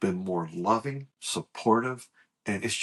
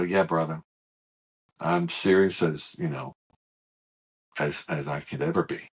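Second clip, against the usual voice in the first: solemn retold confirmation; 7 semitones lower than usual. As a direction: confirm it gravely, with pauses. Earnest answer to brother's question.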